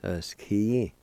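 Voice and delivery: "Uh, ski" said as one careful word; fluent teaching demo of "Uh, ski"; connected pronunciation. Shown as a demonstration. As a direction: model "Uh, ski" smoothly for learners. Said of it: "is pronounced like this".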